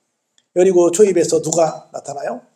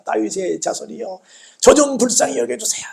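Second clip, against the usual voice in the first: imitated crying out; 3 semitones higher than usual. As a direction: call out for mercy, rising in pitch. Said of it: "더 크게 소리를 지릅니다".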